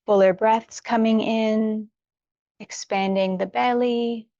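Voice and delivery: unhurried yoga-teacher guidance with long pauses; guided meditation. Real, not acted. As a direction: gently talk them through each stretch, leaving room to breathe. Leads warm-up for meditation.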